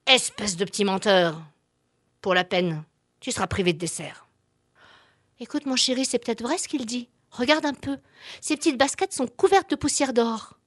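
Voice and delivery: a strict dad handing out punishment; stern father. Acted. Papa punishes, mama softens.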